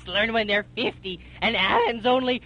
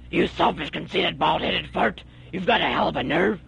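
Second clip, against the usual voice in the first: angry scolding; 5 semitones lower, faster than usual. Acted. Scolding her son angrily.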